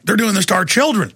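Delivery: mock outraged caller; retold angry caller. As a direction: imitate a caller getting mad about children. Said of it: "a caller earlier is like".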